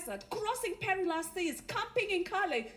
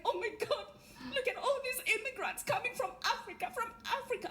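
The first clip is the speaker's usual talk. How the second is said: high-pitched mock panic; mock freak-out; 5 semitones higher than usual. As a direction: imitate alarmed onlookers, voice pitched up. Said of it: "white British people are freaking out".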